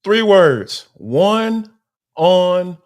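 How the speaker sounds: loud, pumped-up burst of excitement; shouting with real excitement; loud hype. Real, not acted. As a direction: fire it out like a hype man. Hyped answer about camp one-on-ones.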